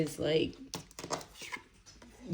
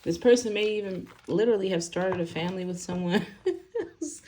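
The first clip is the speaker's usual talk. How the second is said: a real laugh breaking in at the end; 4 semitones higher than usual. Real, not acted. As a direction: let a giggle slip out on the last word. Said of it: "I don't mean to laugh".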